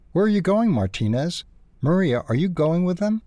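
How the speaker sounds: high-pitched, rising panicked questions. A narrator's reading. Ralph sees his friends leaving without him, panicked. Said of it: "Ralph panicked".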